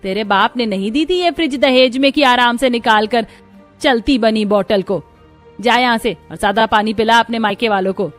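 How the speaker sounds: loud, high-pitched furious mother-in-law; angry scolding. Acted. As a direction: lash out at your daughter-in-law. Mother-in-law scolds, snatches the bottle. (बहू को ज़ोर से डाँटती गुस्सैल सास)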